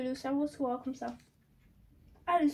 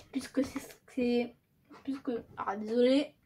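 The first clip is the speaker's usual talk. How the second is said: stumbling through a dental retainer; talking around a retainer, tripping on words; wearing a retainer; 2 semitones lower than usual. Real, not acted. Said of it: "j'ai mon appareil, beaucoup de mal à articuler".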